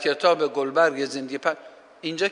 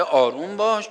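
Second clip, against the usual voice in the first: soothing self-talk; 4 semitones higher than usual. Shown as a demonstration. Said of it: "فرمانهای آرامش دهنده".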